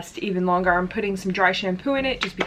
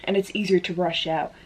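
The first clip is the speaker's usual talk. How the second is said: slightly winded, breathy talk; out of breath. Real, not acted. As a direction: talk while a bit out of breath. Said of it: "I don't know why I'm out of breath".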